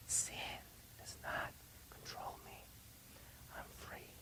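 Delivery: slow, voiceless whisper. Shown as a demonstration. Preacher leading the congregation to whisper the declaration. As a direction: whisper it word by word. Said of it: "I want you to whisper it".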